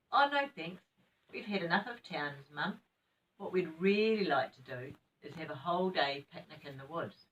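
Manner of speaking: put-on bright eager child's reply; eager children. Children answer Mum.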